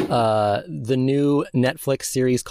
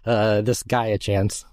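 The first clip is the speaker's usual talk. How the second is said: put-on old-timey voice. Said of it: "I love your old-timey voice".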